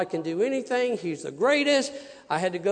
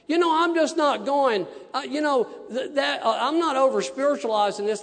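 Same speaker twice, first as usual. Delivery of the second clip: excited; 7 semitones higher, 5 dB louder than usual. Real, not acted. Excited preaching aside.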